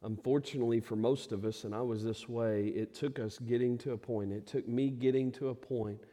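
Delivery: a preacher quietly pleading with each listener; soft intimate appeal. Acted. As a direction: draw them in softly.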